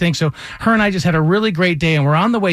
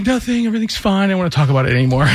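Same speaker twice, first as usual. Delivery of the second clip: brushing it off; 3 semitones higher, much faster than usual. Retold or imitated. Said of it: "I'm like".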